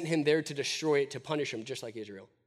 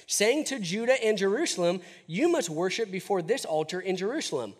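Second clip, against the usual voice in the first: mock taunting; 4 semitones higher than usual. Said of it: "He's taunting them right outside the city".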